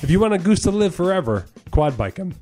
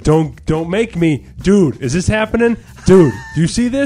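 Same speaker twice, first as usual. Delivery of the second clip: mock goose voice; 3 semitones higher, 5 dB louder, slower than usual. Voicing goose egging its partner.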